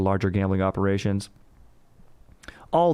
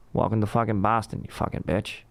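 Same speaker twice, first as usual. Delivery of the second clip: mock Boston tough guy. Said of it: "last part was included in the quote".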